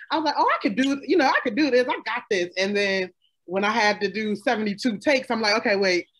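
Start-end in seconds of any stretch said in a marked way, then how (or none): none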